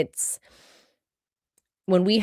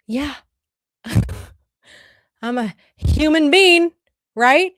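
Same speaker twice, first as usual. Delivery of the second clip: high and louder, laughing it out; amused high exclamation; 9 semitones higher, 6 dB louder than usual. Real, not acted. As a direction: laugh off her own flaws. Laughing admission of her flaws.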